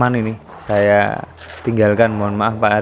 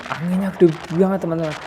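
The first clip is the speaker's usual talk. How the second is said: raised, higher voice against the wind; shouting over wind; 6 semitones higher than usual. Real, not acted. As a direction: call out over the gusts. Riding in strong wind.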